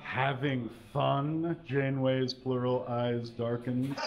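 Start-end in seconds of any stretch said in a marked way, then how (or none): 0.0-1.5 Janeway, coldly. Acted. Janeway repeats the lord's words.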